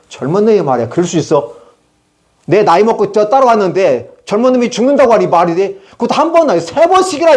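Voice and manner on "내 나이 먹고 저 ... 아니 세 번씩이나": rising indignant protest, climbing higher; Peter's angry retort. Retold or imitated. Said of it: "뭐라고 그래요?".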